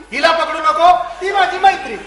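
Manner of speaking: loud, high, sing-through list of their pleas; exasperated mimicking. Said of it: "प्रत्येक वेळी तुम्ही म्हणता". (वैतागून नक्कल करत, चढ्या आवाजात)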